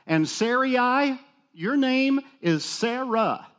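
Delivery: high, slow solemn proclamation of "your name is Sarah"; a hint of a booming God renaming Sarai. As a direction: announce the new name slowly and grandly.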